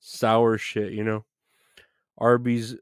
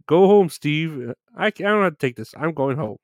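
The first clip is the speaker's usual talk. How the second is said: lightly voiced, higher nerdy whine; Urkel impression; 4 semitones higher than usual. Streamer quoting Urkel's exit line to chat, mildly high and whiny. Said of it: "Man, Urkel's fucking great".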